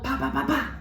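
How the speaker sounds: rapid "pa pa pa pa" gunfire noises; imitated gunshots. Describing the track's gunshots, spoken mock gunfire. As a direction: mimic a burst of gunshots by mouth. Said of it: "then there's gunshots".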